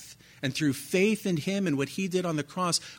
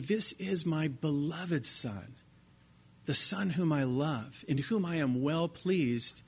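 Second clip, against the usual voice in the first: voice of God; slower than usual. Acted. God's voice, slow.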